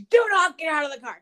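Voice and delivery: firm cop order. Retold or imitated. Husband warning wife in the car, loud firm order. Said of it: "he goes".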